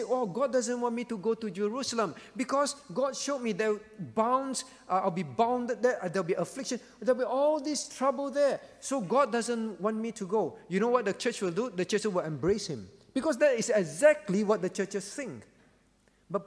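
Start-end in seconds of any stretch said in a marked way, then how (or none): 0.0-10.6 pretend excuse. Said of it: "Paul can pretend in many things and say".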